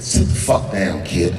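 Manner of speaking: low, rough order to sit down; gruff producer voice. Retold or imitated. Producer telling the kid to sit down, gruff and low. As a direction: bark it down like a big-shot producer. Producer barking at young comic.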